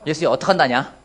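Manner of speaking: playful Jeolla dialect with a laugh; laughing mock Jeolla dialect plea. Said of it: "어떤 식으로 말했을 것 같아요?".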